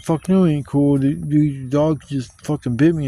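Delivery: loud heated retort; angry refusal. Retold or imitated. Answering the dog owner, loud anger. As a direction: refuse him angrily. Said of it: "And I said".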